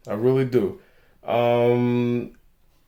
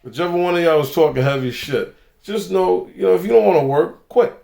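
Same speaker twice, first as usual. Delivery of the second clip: raised, higher-pitched retort, mildly louder; mock-confronting them in a raised voice; retold loud telling-off; 4 semitones higher than usual. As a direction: re-enact telling someone off for all to hear. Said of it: "I said it loud enough".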